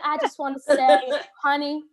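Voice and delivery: put-on Southern bouncer, breaking into laughter; Southern accent. Bouncer to the young woman at the door, amused Southern accent. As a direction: imitate a Southern man, laughing midway. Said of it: "I don't know why he's Southern".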